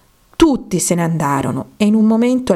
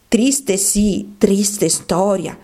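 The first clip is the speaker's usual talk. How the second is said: sighing; much slower than usual. A narrator's reading. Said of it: "sospirò di nuovo il topo".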